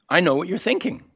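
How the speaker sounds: high-pitched, lilting claim rising at the end; high and knowing, lifted on THINKING; knowing tease. Acted. Teasing line repeated two ways.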